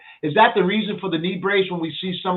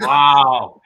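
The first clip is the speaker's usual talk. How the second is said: amazed shout; 3 semitones lower, 11 dB louder than usual. Real, not acted. Host reacts to the ploy.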